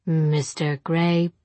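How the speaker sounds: dull, very slow robot voice; mechanical voice. Acted. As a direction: speak like a flat automaton. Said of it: "a dull mechanical voice".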